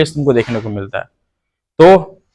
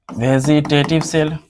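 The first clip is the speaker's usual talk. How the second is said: slow dictation; 5 dB quieter, much slower than usual. Real, not acted. Writing the term while repeating it.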